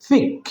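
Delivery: ফিক punched high; a short, high-pitched ফিক; stressed syllable. Shown as a demonstration. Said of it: "এটা capital লেটারে লেখা আছে".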